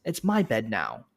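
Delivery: put-on a headstrong toddler digging in; kid refusing. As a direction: play the stubborn four-year-old refusing. Kid refusing, voiced by parent.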